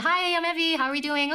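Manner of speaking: high, sing-out greeting pitched well above normal; demonstrating an unnaturally high voice. Shown as a demonstration. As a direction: put on a high, girlish-pitched hello. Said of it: "go in a really high-pitched voice".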